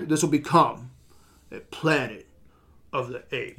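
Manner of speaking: a hint of a grim movie villain; imitating the villain. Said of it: "he's like".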